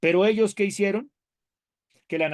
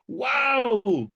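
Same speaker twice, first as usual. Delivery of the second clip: wow; 8 semitones higher than usual. Real, not acted. Reacting to the text's demands.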